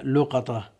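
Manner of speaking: لقطة as lu-qa-ta, with short "a" after qaf; fatha on qaf. Shown as a demonstration. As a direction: say لقطة in three syllables, lu-QA-ta. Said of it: "أجمعوا على أنها بالفتح".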